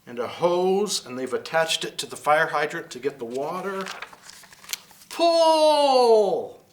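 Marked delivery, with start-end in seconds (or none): 5.1-6.6 high, loud command; shouted command. Acted. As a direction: shout it as an order. Firefighters pull the hose.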